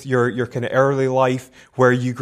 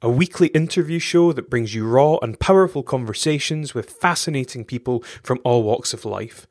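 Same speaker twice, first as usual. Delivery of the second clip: smooth, even announcer read over music; polished radio-style intro; podcast intro read. Acted. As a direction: read it like a recorded show opener.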